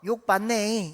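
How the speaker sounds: drawn-out Jeolla dialect phrase. Shown as a demonstration. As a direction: say it as Jeolla locals would. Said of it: "전라도 말로". (전라도 사투리로)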